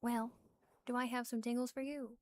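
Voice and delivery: lightly voiced playful witch; a hint of a teasing witch. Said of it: "a witch lived around these parts".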